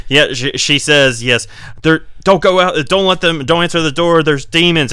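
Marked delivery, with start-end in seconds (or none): 1.8-4.9 mock panicked warning. Frightened girl warns priest, acted.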